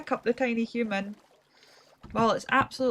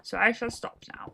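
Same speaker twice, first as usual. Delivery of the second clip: mock-grand. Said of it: "putting on this voice".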